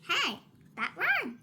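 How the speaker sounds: delighted cry. Acted. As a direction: cry out with a laugh at the rhyme. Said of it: "he cried".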